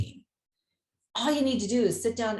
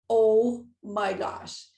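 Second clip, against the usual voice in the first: astonished; 5 dB louder, much slower than usual. Retold or imitated. Seeing the license plate, astonished.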